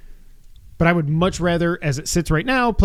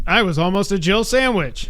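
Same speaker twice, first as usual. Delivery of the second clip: Resident Evil quote; 4 semitones higher than usual. Retold or imitated. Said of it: "like a Resident Evil character".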